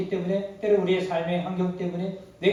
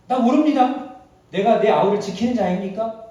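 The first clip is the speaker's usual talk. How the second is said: defiant denial; 5 dB louder than usual. Acted. Cain lying to God.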